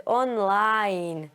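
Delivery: "online" slowly, the I drawn out and falling; online with long I. Shown as a demonstration. Teacher pointing out the I, "online" slow with a long falling I. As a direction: stretch the I in "online", letting it fall. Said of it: "you hear the I".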